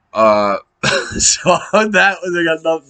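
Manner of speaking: high, slow laughing gush; laughing excitement. Real, not acted. Fan thrilled by the promo, laughing high. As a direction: break into giddy laughter.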